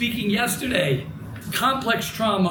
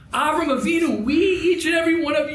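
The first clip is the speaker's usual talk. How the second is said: rousing; 6 semitones higher than usual. Real, not acted. Preacher rises to rally crowd.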